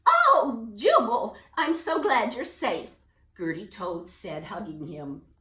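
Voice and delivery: high, loud joyful relief; relieved mother toad. Acted. Gertie hugging Jubal, overjoyed. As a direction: gush with relief.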